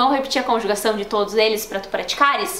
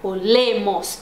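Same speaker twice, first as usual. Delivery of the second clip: "Olemos" stressed on "le"; "Olemos", the "le" carrying the weight; 3 semitones lower, slower than usual. Shown as a demonstration. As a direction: lean on the middle syllable of "Olemos". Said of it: "é no le".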